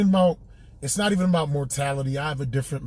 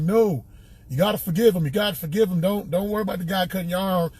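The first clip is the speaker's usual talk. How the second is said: Gary Owen hillbilly voice; 4 semitones higher than usual. Retold or imitated. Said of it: "making Gary sound like a hillbilly".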